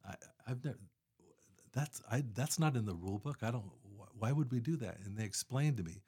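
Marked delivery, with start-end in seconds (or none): 0.1-5.0 higher-pitched, halting mock disbelief; baffled objection. Planner retells questioning the volunteers' laundromat idea, baffled and halting. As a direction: replay your stammered bewilderment.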